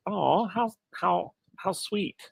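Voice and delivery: soft, high, drawn-out cooing; touched. Retold or imitated. Host recalling a nice little moment, touched. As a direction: melt tenderly over something sweet.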